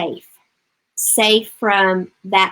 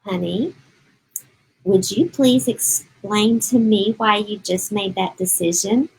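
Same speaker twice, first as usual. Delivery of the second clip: calm gentle voice. Shown as a demonstration. Mother calming herself while asking her upset child, gently. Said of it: "I'm gonna talk like that because me talking like that actually helps me calm down".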